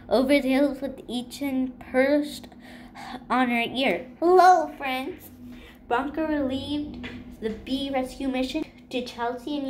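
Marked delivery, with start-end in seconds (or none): 4.2-5.3 cheerful hello. A narrator's reading. Friendly greeting arriving.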